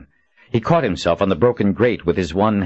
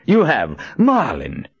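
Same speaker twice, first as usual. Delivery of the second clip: grating impudent voice; 6 semitones higher, slower than usual. A narrator's reading. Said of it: "in Jagang's grating, impudent voice".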